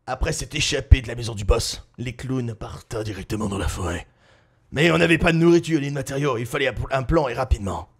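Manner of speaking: low, quiet narrator voice; story narration. A narrator's reading. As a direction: tell it like a storyteller. Narrates story between scenes.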